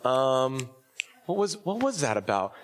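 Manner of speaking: mock blank-minded puzzlement; puzzled recall. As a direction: pretend you can't remember, groping for it. Acts out forgetting the sermon.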